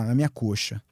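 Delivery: normal talking voice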